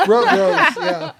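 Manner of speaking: high, loud, real laughter through the words; laughing. Real, not acted. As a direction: stammer it out through a big laugh. Laughs at being called a rogue.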